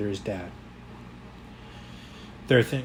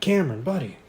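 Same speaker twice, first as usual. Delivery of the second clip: higher, playful peekaboo reveal; delighted dad; 6 semitones higher, 3 dB louder than usual. A narrator's reading. Dad clapping for his toddler at peekaboo, delighted. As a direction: greet a toddler as if appeared by magic.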